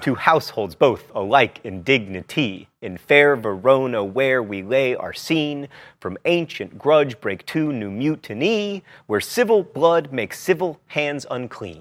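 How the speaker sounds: slow, pounding da-DUM on every iamb; sing-songy iambs. Shown as a demonstration. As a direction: hammer each stressed syllable like a nursery rhyme. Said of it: "read iambs in that sing-songy way".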